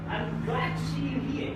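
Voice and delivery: "glad" given emphasis within the sentence; sentence stress. Shown as a demonstration. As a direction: lean on "glad". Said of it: "I'm giving stress somewhere here".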